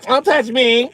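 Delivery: high, loud indignant snap; acted-out woman shouting with attitude; mock-outraged high yelp; sassy attitude. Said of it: "so she had attitude".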